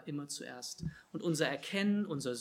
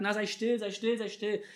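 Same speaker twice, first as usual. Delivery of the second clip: hushing; 5 semitones higher, 3 dB louder than usual. Acted. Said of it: "und Leute sagten".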